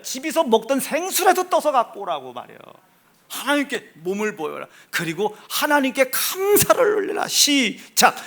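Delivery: emphatic sermon exhortation, lifting at the end; commanding pulpit delivery; forceful preaching. Acted. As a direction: urge the congregation on. Preaches, leads congregation.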